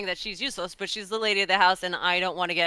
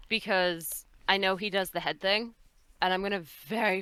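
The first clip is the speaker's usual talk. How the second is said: ordinary talk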